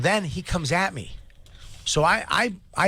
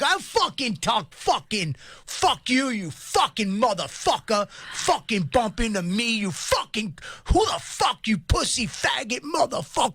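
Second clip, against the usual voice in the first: high-pitched mock rant, curses spilling out; screaming angry stranger; 8 semitones higher than usual. Man retells the stranger screaming at him for bumping into him, in a high rant. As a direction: imitate a ranting stranger, voice pitched way up. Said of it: "he's still screaming".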